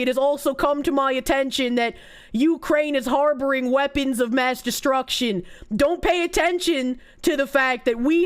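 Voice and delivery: a hint of George Bush announcing a war; George Bush impression. Streamer mocking a future president's speech, lightly voiced Bush. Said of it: "I can't do a George Bush accent. Just pretend I was him".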